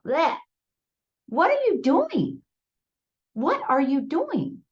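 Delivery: high, slow, bewildered repeat; a lost little girl asking, slowly; confused child. Retold or imitated. Girl asking the man, slow and bewildered.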